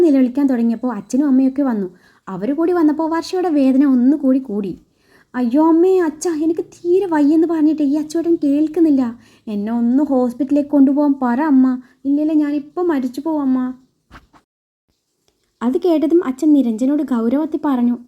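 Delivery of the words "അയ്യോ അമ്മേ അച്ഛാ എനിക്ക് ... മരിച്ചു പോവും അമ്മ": faked pain. Daughter-in-law wails to parents about husband, hammed-up. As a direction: play the dying victim for the parents. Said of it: "വർഷ അഭിനയിച്ച് തകർക്കുവാണ്".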